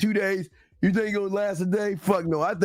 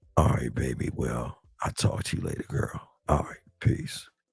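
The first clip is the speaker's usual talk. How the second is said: put-on smooth, breathy, suave, cool voice; 4 dB quieter than usual. Acting out a guy on the phone inviting a girl over: faking a smooth cool voice. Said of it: "And you're like".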